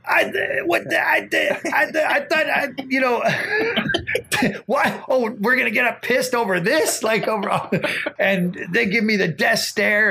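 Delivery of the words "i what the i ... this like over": retold flustered protest. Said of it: "And I'm going".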